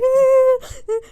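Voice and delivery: loud high fake wail; hammed-up sobbing noise; mock crying. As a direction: imitate crying at a high pitch. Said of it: "like, crying, right?".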